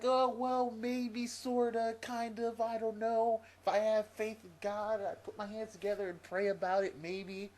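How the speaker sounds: high, loud imitation of a waffler; exaggerated wishy-washy hedging, high and loud; mock noncommittal waffling. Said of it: "he didn't even commit to it. He's like".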